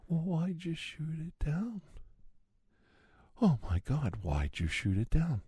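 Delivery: high, whining mock outrage, partly whispered; mock outraged critics. Ranting conspiracy man mimics the outraged side, high mock whine. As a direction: parody the hand-wringing critics in a high whine. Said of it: "on the one side were going".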